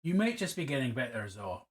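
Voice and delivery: put-on slipping into a light Scottish accent; a passing hint of Scottish accent, half by accident. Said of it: "I just dropped into a Scottish accent".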